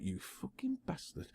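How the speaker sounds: a breathy, laughing whispered curse under the breath. Retold or imitated. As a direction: mutter it like a secret swear. Retold thought at the sign.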